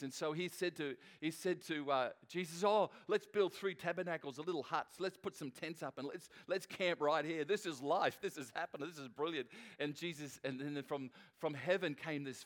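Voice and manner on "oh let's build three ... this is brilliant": mildly excited retelling of Peter's idea. Retold or imitated. Peter to Jesus on the mountain, mildly excited. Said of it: "Peter was all excited".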